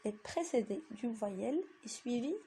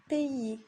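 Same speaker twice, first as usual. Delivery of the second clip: pays with the I pressed, a bit louder; stress on the I; 3 semitones higher, 4 dB louder than usual. Shown as a demonstration. Teacher stresses the I of pays for the class. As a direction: lean on the I in pays. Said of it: "on appuie un petit peu sur le I".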